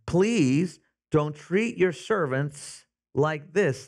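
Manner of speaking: slow, pleading plea; drawn-out mild beg to the master; begging. Retold or imitated. Foremen begging Pharaoh for mercy, slow mild pleading. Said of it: "they begged".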